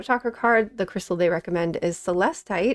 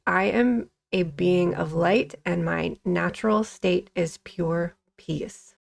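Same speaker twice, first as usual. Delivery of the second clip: calm affirmation; slower than usual. Shown as a demonstration. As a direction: read it like a gentle mantra. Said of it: "The affirmation is".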